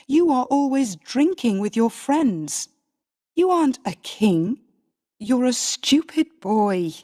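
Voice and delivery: scornful scolding. Acted. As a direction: belittle him with each line.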